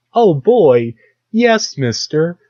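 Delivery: put-on high, loud, gee-whiz kid voice; eager little kid. Kid in a safety video answering the stranger, high and eager. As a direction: squeak it out like a wide-eyed kid.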